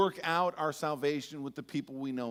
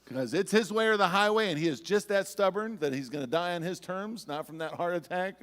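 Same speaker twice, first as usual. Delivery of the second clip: retold outburst; 3 semitones higher, 7 dB louder than usual. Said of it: "I go".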